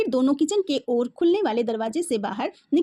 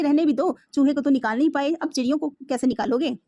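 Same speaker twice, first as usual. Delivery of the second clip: teasing. Acted. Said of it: "माँ ने मजाक से कहा".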